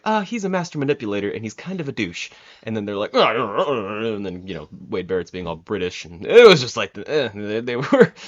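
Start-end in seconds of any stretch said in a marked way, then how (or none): 0.0-2.3 Michael Cole. Retold or imitated. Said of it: "then Michael Cole's like". 3.1-4.1 garbled bickering babble; mock bickering noises. Fan imitating commentators talking over each other, mock bickering. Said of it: "a little bickering in the commentators".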